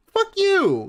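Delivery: very high furious yell; angry shriek. Real, not acted. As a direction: scream it at him. Ranting at DSP's clip.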